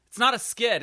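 NOT pushed up high and loud; stress on not. Shown as a demonstration. Correcting a fellow comic, stressing not. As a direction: land hard on the word not in "It's not a skit". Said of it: "it's a sketch".

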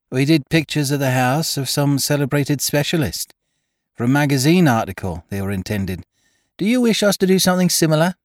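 put-on a slightly flustered girl behind the counter; shop girl voice.

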